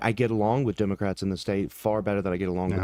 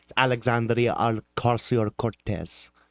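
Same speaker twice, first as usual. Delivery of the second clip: affected flourish on the name, much slower. Agreeing that her full name needs that flair, with an affected flourish on the name. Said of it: "with the proper affectation".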